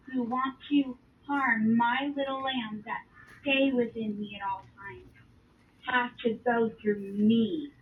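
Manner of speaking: guard the little lambs with gravity; protective divine warning. Retold or imitated. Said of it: "He says".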